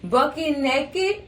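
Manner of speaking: slow, comic put-on voice; Bernie Mac. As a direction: stretch it out slowly like a stand-up comic. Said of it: "in my Bernie Mac voice".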